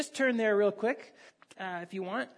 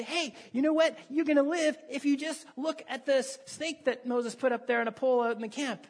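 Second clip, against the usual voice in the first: a higher, excited "Hey, you know what?"; eager messenger; 4 semitones higher than usual. Retold or imitated. Neighbour tells the bitten man about the snake, higher and eager. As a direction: pitch the good news like a hopeful neighbour. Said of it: "somebody comes to you and say".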